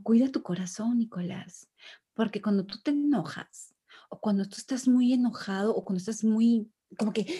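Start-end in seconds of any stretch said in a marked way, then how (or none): 0.0-1.7 gentle reminder. Shown as a demonstration. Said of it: "le estoy enseñando".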